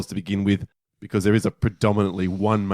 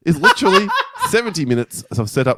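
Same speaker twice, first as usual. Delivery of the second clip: reading aloud; 6 semitones higher, 5 dB louder than usual. Shown as a demonstration. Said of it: "here's a line from my review".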